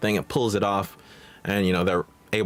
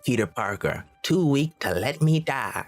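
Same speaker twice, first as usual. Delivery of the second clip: Norman; 4 semitones higher than usual. Retold or imitated. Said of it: "Norman is, like, obviously doing the, the villain thing".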